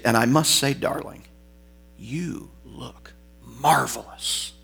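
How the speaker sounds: lightly voiced smooth Latin host purring a compliment; Fernando Lamas impression. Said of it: "Fernando Lamas ... played by Billy Crystal".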